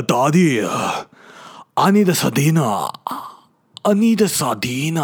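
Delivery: high wailing put-on baby accent; imagined baby voice. Hungry newborn begging daddy for dinner, mock wailing. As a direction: swoop up into a needy mock-baby whine. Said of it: "this is the way I imagine her speaking".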